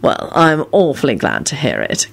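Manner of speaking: mildly pleasant, smooth reply; politely satisfied. A narrator's reading. Kingsley accepting Ron's denial, pleasant. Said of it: "Kingsley replied pleasantly".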